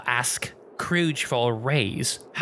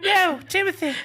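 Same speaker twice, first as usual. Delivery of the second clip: high scolding mom voice; stern mom calling out; mother voice; 3 dB louder than usual. Acted.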